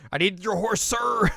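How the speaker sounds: high, rising commanding call; mock urgent demand. Heroine commandeers a horse.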